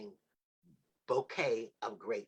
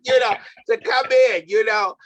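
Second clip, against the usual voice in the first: laughing; 10 semitones higher, 18 dB louder than usual. Real, not acted. Host laughing while telling story.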